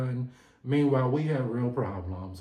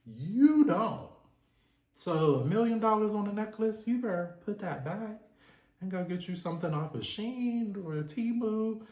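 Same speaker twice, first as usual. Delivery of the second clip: imagined Todd; 7 semitones higher than usual. Retold or imitated. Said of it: "I'm sure Todd is like".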